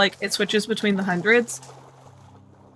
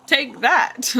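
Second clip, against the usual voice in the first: villain taunt; 3 semitones higher than usual. Acted. Taunting squid after cackle.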